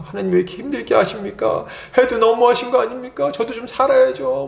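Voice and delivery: acted aggrieved plea; pleading complaint. Voices a believer pleading with God.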